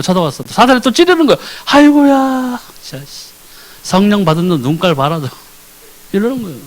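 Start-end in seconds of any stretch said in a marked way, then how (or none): 1.7-5.3 sneering tempter, a breath of a hiss; lightly acted scorn; mock jeer. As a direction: ridicule the ogling believer. Satan mocking the believer.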